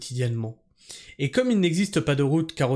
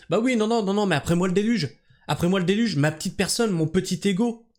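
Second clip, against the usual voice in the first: higher-pitched sarcastic imitation; mock-dismissive, raised pitch; mocking selfish client; 4 semitones higher than usual. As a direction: mimic a self-centred client, lightly.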